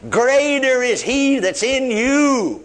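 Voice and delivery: slow verse with "Greater" leaned on; stress on GREATER. Shown as a demonstration. Preacher repeating First John to believers, emphatic and slow. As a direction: stretch and drive home "Greater", then carry on slowly. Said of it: "I'm only emphasize that word".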